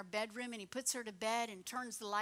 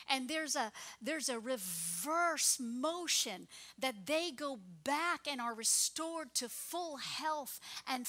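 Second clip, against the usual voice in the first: swelling, louder preaching prayer; fervent prayer; 4 dB louder than usual. Acted. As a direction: pray over them with rising passion. Pastor prays over congregation.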